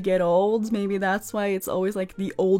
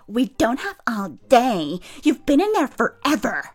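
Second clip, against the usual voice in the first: impatient nurse; 3 semitones higher than usual. Retold or imitated. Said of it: "pounding on the door saying".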